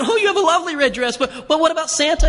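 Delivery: put-on high, laughing coax to a little girl. To a three-year-old in a red dress, a high laughing coax. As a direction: chuckle through the praise, then steer her back. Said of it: "I said".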